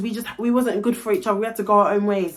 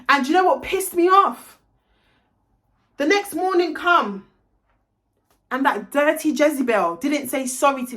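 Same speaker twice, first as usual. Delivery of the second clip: indignant outburst; 4 semitones higher than usual. Real, not acted. Ranting about the friend who never said sorry, outraged. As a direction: pitch jumps up with indignation.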